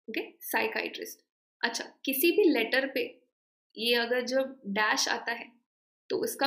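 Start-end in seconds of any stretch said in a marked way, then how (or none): 0.4-1.2 साइकाइट्रिस्ट as sai-kai-trist; correct pronunciation. Shown as a demonstration. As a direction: repeat साइकाइट्रिस्ट with short i in "trist". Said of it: "check the pronunciation". (साइकाइट्रिस्ट का सही उच्चारण, "काइ" और छोटा "ट्रिस्ट")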